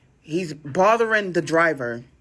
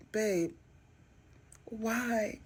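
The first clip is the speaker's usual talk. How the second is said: put-on distraught girlfriend; 6 semitones higher, 9 dB quieter than usual. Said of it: "play the distraught girlfriend".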